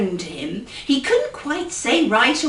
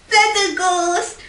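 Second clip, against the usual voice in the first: Flabbergast said slow, higher and punched; stress on Flabbergast; 7 semitones higher than usual. Shown as a demonstration. Storyteller punches the word Flabbergast for the child. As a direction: hit Flabbergast hard. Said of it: "repeated word punched".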